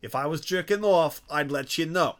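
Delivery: heated wise guy rant; angry tough guy. Acted. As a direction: rant like an offended mobster. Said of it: "I'm really having fun with that".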